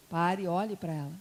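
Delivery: low, calm command; lightly voiced divine instruction, unhurried; Espírito Santo. Holy Spirit instructing the reluctant preacher, low and calm. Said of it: "o Espírito Santo falou assim".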